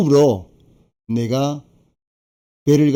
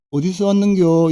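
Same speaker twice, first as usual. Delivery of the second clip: put-on curious old villager; 7 semitones higher, 3 dB louder than usual. Old villager asks newcomer.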